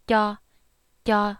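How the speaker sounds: "ya" with tongue sides on the wisdom teeth; crisp unaspirated "ya"; Hmong clear ya. Shown as a demonstration. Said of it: "hitting against the insides".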